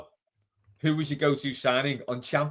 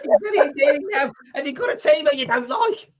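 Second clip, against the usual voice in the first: laughing; 12 semitones higher, 7 dB louder than usual. Real, not acted. Laughing at mate's accent.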